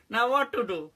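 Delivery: high, laughing mock despair. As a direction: ham up the helplessness.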